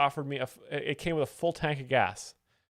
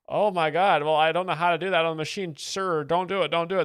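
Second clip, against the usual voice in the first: higher, louder panicked cashier pleading; hammed-up frightened begging, rushed; mock panic; 3 semitones higher, 6 dB louder than usual. A cashier begging the customer not to explode it, mock panic.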